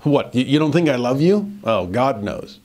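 wry, a touch of mock hurt on "you"; lightly ironic, as if Paul is teasing; mild sarcasm. Shown as a demonstration. Paul answering doubting Corinthians, with mild sarcasm. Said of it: "a little sarcasm there, at least some irony".

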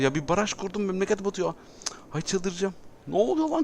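high-pitched panic as the city floods; shrieking in disbelief, voice shooting up; panicked. Real, not acted. Gamer panicking as his dam floods the city, high panicked yelp.

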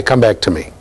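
ordinary delivery

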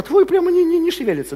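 high-pitched complaint about the stuck lane; mock exasperation. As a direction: voice lifts high in comic frustration. Mimics frustration at stuck lane.

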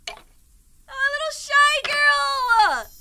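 high, very drawn-out cutesy squeal; stretched high-pitched cooing; adoring coo. Real, not acted. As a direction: gush slowly over something adorable. Cooing over shy character.

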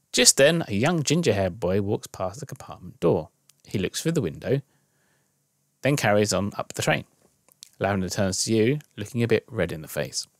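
measured storytelling read; story narration. A narrator's reading. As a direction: read it as an unfolding story, with pauses. Reads interactive story aloud.

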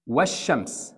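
والشمس said "wash-shams", no L; teacher's model of والشمس with a long sh; silent lam. Shown as a demonstration. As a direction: skip the lam in والشمس, doubling the sh. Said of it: "Just skip those".

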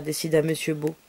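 ordinary delivery

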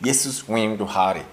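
"Jesus, we to Hari" said tentatively; attempted Amharic. Shown as a demonstration. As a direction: try the Amharic phrase unsure. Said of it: "let me try it".

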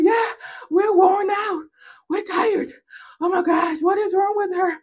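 very high mock wail; squealed, hammed-up exasperation; worn-out enemies. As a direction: whine loudly, utterly fed up. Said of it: "your enemies are wondering".

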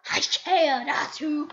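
loud and drawn out; loud, emphatic delivery. Real, not acted. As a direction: belt out each word, stretching it. Playful rant over game lag.

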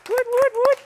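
high, loud whooping cheer; excited cheer. Real, not acted. Host cheering at the tower of jars, loud high whoops.

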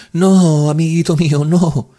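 high, loud, emphatic refusal; cutting him off. A narrator's reading. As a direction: break in forcefully with distress. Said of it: "me atajó ella".

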